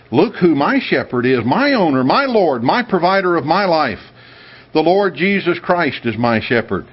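proud devotion. Retold or imitated. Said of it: "with a strong sense of pride and devotion".

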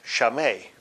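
"shameh" said sha-MAY; demonstrated pronunciation. Shown as a demonstration. Teacher showing the Hebrew word, "shameh" pronounced sha-MAY. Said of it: "it's pronounced".

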